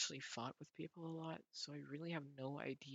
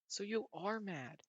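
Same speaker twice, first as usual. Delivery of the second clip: gotcha; 6 semitones higher, 6 dB louder than usual. Acted. Catching her out.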